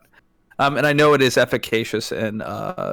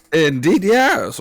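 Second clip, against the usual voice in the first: mock grandiose; 4 semitones higher, 4 dB louder, slower than usual.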